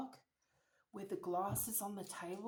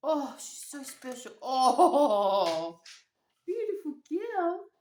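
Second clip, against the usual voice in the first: fussing over a pet; 4 semitones higher, 9 dB louder than usual. Real, not acted. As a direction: gush adoringly over your pet. Talking fondly to pet mid-story.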